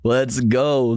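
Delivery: normal talking voice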